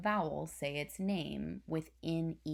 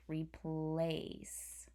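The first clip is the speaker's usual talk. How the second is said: whispered word. Shown as a demonstration. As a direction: whisper "replace" drawing out the long A. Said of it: "that A is gonna make the A sound".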